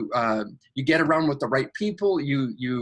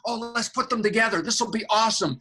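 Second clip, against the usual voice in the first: excited angel; 5 semitones higher than usual. Retold or imitated. Angel voiced, higher pitch.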